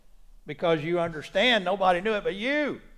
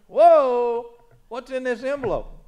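re-enacted startled "whoa", higher; mock surprise; 6 semitones higher, 6 dB louder, slower than usual. Preacher retelling his find in his pocket, mock surprise. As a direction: act out stumbling on something unexpected. Retold discovery of envelope.

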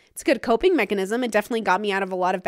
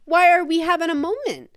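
high, playful self check-in; a light "girl, what's up" to yourself; talking to herself; 8 semitones higher, 3 dB louder than usual. Retold or imitated. Calming herself before panic, high and playful. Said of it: "I can tell myself".

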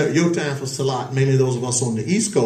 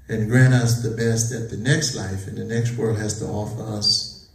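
solemn prayer. Real, not acted. Leads a closing supplication.

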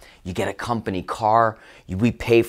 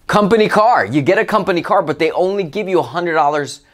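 higher and louder, scoffing at Company car; incredulous emphasis; 5 semitones higher, 3 dB louder than usual. Real, not acted. Speaker exposing the contract's fine print, loud and scoffing. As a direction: throw Company car out with disbelief.

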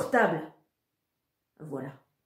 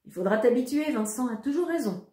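silly laugh; 5 semitones higher than usual. A narrator's reading. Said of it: "répond maman en riant bêtement".

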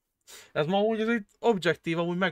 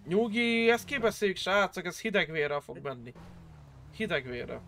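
calming down; 5 dB quieter than usual. Real, not acted. Calming the others after the shooting.

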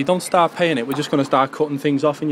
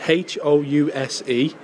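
slow spelling, letter by letter; dictating; slower than usual. Acted. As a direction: spell each letter out clearly. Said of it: "I'll spell it out to you".

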